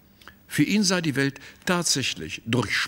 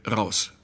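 a firm, level "Raus" with a falling end; cold and final, no raised voice; curt, not loud. Acted. The painter ordering Malzahn out, firm but not loud. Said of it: "ohne übertriebene Lautstärke".

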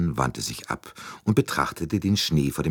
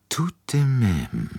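grumbling; 9 semitones higher, slower than usual. Acted. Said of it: "brummte Poirot".

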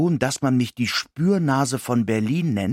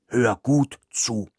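1 dog yap. Acted. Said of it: "kläffte es mir".

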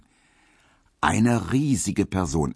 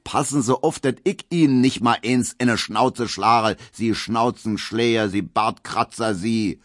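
louder, higher threat with fist raised; raised bullying threat; threatening call; 4 semitones higher, 3 dB louder than usual. Acted. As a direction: menace him loudly. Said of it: "ruft Gustav Schmelow".

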